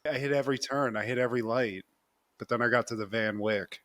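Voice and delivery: flat, low monotone recounting. Retold or imitated. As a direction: keep it lifeless and even. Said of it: "It's, like, very monotone".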